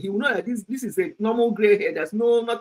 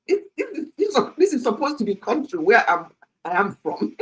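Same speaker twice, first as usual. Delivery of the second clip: put-on a touch of Oyibo accent, halting and indignant; imitated Oyibo English; 2 semitones higher than usual. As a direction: imitate a British-raised son's protest. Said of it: "trying to speak his, uh, Oyibo grammar".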